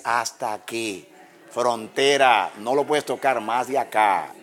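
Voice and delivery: slow, measured command from God; firm boundary-setting. Retold or imitated. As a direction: lay down the limit word by word. Dios pone límite al diablo. (orden firme, lenta y pausada)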